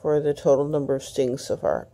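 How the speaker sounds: speaking around a stiff, sore jaw; words slightly slurred by jaw pain; talking funny from sore jaw. Real, not acted. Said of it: "sorry I'm talking funny".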